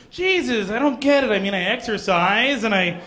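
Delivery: put-on frustrated girl talking to herself, building to a high loud realisation; girl in front of a mirror, building to a loud discovery. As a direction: rant to the mirror, then the penny drops. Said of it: "some girl in a room ... being like".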